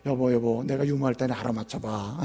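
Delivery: wife wheedling her husband, hushed; coaxing wife. Retold or imitated.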